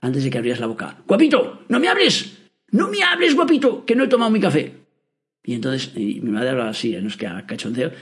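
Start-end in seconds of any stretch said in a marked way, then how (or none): 1.1-4.7 put-on mother's French accent, pitched much higher. Mother before her morning coffee, warning off her son in a high French accent. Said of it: "hablaba con ese acento muy divertido".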